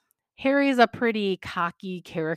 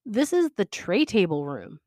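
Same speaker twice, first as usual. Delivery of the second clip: a touch of proud showing-off. Acted. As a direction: present the room like it's a treasure. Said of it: "Niall says proudly".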